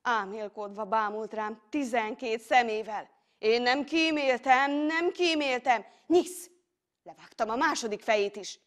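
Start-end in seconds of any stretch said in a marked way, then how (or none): 3.4-6.5 raised pitch climbing into a loud slicing word; fierce battle excitement. A narrator's reading. Hero striking at the monster, fiercely excited. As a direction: press the attack without mercy.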